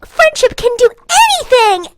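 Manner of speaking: hammed-up anime optimism; mock anime hero. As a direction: parody a shonen hero's rallying cry. Mocking anime cliché.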